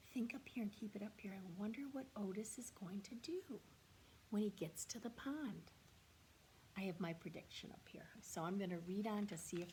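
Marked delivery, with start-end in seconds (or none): 0.1-5.7 soft, fast whisper; whispered prompt. Real, not acted. Teacher whispers to students to think in their heads. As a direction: murmur it like a secret thought. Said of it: "teacher whispers thinking prompt".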